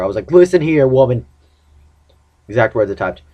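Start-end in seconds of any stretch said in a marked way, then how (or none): 0.3-1.3 louder, raised-pitch telling-off; mock indignant. Texting back the girlfriend, mock indignant outburst. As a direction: set her straight with mock outrage. Acting out an indignant text reply.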